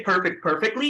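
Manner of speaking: American "perfect, perfectly" with popped P's; American accent. Shown as a demonstration. Trainer lists examples for class, American accent "perfect, perfectly". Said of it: "keep doing the same thing".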